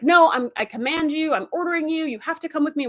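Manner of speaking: hammed-up insistence; imitated commanding. Retold admiral ordering the android.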